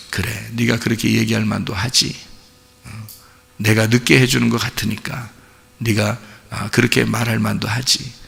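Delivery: soft, low and understanding; patient indulgence. Acted. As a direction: gently concede the point, keeping it quiet. God patiently indulging childish demands.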